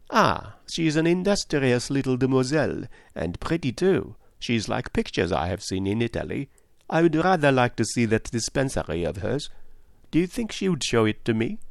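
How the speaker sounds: lightly voiced, admiring and inquisitive; admire, then lift into a polite question; courteous detective Poirot.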